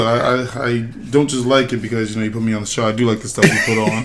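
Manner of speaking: hoarse, rough throat; raspy voice. Real, not acted. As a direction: rasp after a night of drinking. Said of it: "excuse my raspy voice".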